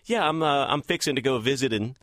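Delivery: lightly folksy Texas twang; Texas accent. Shown as a demonstration. Host shows what he never says in Los Angeles, Texas accent. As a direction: slip into home-state Texas talk. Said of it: "you will never hear me around here dropping y'alls".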